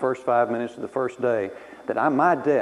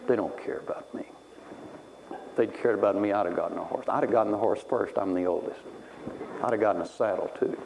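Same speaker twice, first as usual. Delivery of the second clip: low, soft mock self-pity; self-pitying sulk; 4 semitones lower, 5 dB quieter than usual. Boy alone in his room after scolding, mock self-pity. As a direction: pout it as a wronged child.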